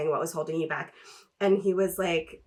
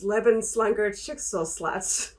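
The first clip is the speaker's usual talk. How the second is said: fake German; slower than usual. Shown as a demonstration. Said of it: "it's fake German".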